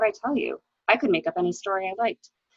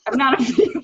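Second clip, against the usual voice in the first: laughing; 4 semitones higher, 5 dB louder, faster than usual. Real, not acted. Actor breaking character mid-take.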